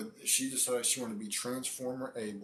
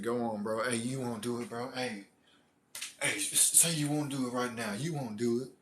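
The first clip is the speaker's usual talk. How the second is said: lively mock goading, pitched up toward the end; imitated egging-on. Friend daring him to go through with it, mock goading. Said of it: "That's what the dude was saying".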